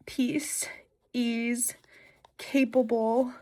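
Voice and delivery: tender whispered reading. Real, not acted. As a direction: breathe the words out. Tearful reading of own wishes.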